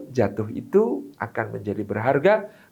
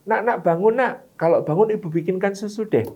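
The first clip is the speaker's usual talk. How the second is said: sweet, higher coaxing voice; first mother, coaxing; 5 semitones higher than usual. Shown as a demonstration. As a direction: wheedle the child awake with a promise. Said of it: "Apa yang diajarkan ibu pertama?". (ibu membujuk anak bangun dengan iming-iming, suara manis lebih tinggi)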